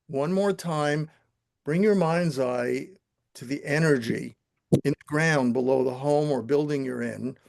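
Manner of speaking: calm, steady guiding voice, unhurried; guided meditation. Acted. Teacher guiding the class through the visualization, calm meditation voice. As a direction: lead the room gently into stillness. Leads breath and grounding induction.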